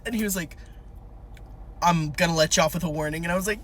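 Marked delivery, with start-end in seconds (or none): 1.8-3.2 lightly voiced traffic cop, low; cop impression. Officer lets driver off, light cop impression. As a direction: lightly play a lenient officer. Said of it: "my cop impression".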